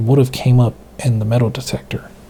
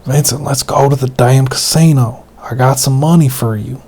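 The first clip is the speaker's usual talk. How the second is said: put-on southern accent; 4 dB louder than usual. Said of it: "I'm kind of exaggerating the southern accent".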